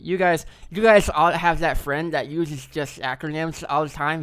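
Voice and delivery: slow emphatic build-up; loud, drawn out. Real, not acted. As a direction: lean in and stretch it out. Loud slow setup of bit.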